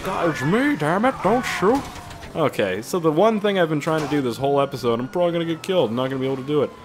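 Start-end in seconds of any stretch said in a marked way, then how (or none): 0.0-1.8 panicky Mountie. Retold or imitated. Mountie pleading with gunmen, high and panicky. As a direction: beg not to be shot, then force a friendly chat. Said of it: "you'll get some once in a while that are".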